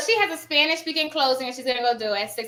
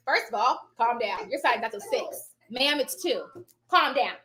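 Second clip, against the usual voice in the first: calm down. Retold or imitated. Retelling herself settling panicking mother.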